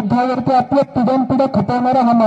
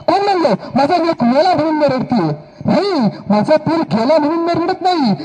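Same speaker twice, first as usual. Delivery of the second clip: impassioned lament, not for the loss but for no more sons; proud grieving mother; 3 semitones higher than usual. Acted. Mother to the king, defiant sorrow. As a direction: build with fierce pride.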